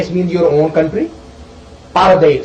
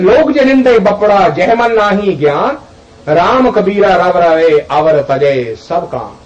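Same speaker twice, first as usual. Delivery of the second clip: slow, intoned devotional verse; recited couplet. Acted. Teacher recites Kabir's couplet to listeners, slow and intoned. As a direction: let the verse unfold slowly.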